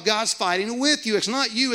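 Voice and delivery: ordinary delivery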